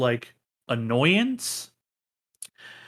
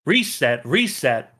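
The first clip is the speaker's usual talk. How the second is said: shouting director; 2 semitones higher, 4 dB louder than usual. Acted. Director stopping the scene, shouting at the cast. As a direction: bark no no no, then call the reset.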